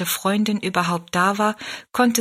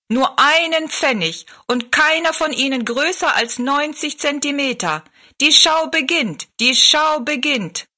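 fairground barker; 8 semitones higher, 3 dB louder than usual. Acted. Showman calls passers-by into the dwarf show, loud barker cry. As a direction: sell the show to the crowd.

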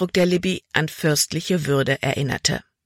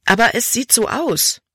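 mildly indignant, pitched higher; upset; 7 semitones higher than usual. A narrator's reading. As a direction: throw it back in agitation. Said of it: "Libby war nun aufgebracht". (aufgebracht, mit höherer Stimme)

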